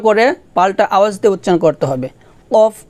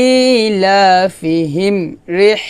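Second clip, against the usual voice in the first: slow recitation; much slower than usual. Shown as a demonstration. Joins the syllables.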